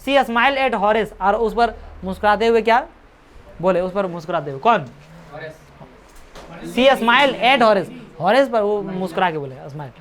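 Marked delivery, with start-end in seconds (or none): 0.1-1.1 slow reading. Shown as a demonstration. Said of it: "reading the text aloud". 6.7-7.9 slow reread. Shown as a demonstration. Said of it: "rereading the line".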